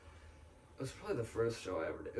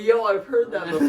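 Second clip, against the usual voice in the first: laughing, high and loud; amused recognition; 11 semitones higher, 14 dB louder than usual. Retold or imitated. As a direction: blurt it out through a laugh. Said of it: "I'm like".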